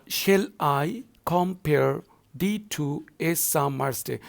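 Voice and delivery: slow recitation split into two-syllable feet; measured classroom scansion; scanning verse. Shown as a demonstration. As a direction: read the line foot by foot, slowly. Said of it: "look at the first line".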